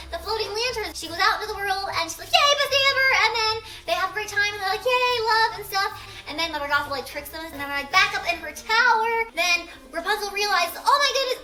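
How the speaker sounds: helium voice. Real, not acted. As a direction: talk after a big breath of helium. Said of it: "using helium voice".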